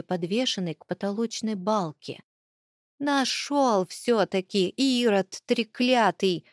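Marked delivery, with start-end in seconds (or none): 3.0-6.4 grandma voice. Acted. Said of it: "голос бабуни".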